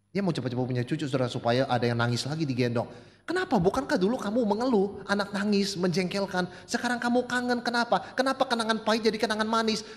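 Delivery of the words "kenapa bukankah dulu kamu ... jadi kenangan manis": rhetorical challenge. Acted. Preacher challenges with questions.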